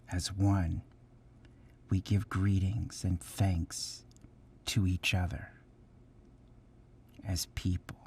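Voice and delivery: measured prayer-like reading with long pauses between phrases; solemn recitation. Real, not acted. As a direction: recite a thanksgiving address reverently, letting each phrase settle. Recites the thanksgiving address.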